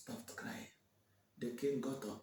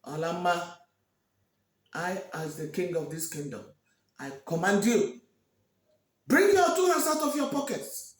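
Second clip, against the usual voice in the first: royal command; 6 dB louder than usual. Acted. King commanding Olama before the crowd to show her hands. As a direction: rise to a thundering order.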